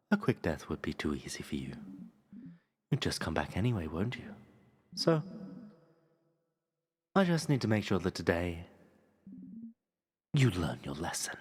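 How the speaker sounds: low, hushed villain voice; the king promising pain; cold king threat. Acted. King's threat, lower whisper.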